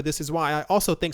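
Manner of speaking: real hurried, run-on delivery; talking fast. Real, not acted. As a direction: rush through it without a breath. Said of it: "sorry for talking so fast".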